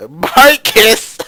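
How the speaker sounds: loud, high cry of disbelief; incredulous outburst. Pretend. Player reacting to the main character's name, incredulous. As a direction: blurt the name out high, mock-appalled.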